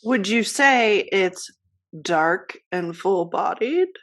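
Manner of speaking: a slow, mock Australian accent; playful fake Australian accent. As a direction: ham up an Aussie coffee snob, slowly. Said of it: "What was that accent?".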